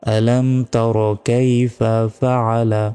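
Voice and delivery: slow "আলাম তারো" with rounded "ro"; drawn-out, careful "কাইফা ফাআলা" with clear ayn; measured correct pronunciation. Shown as a demonstration. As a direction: separate "কাইফা" from three-syllable "ফাআলা". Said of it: "এইভাবে".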